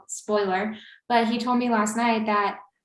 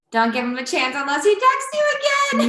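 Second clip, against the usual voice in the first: retold warning, higher voice; emphatic warning; 5 semitones higher, 4 dB louder than usual. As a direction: lay down the rule, pitched up. Quoting her own emphatic advice.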